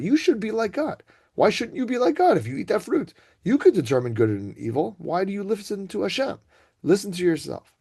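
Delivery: a hammed-up serpent puffing her up, rising in pitch; tempting arrogant snake. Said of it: "He injects in you a little bit of gaiva".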